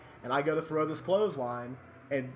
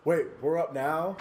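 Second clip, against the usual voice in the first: slow surprised question, a touch of fright; surprised and caught off guard; slower than usual. Retold or imitated. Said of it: "one of the two goes".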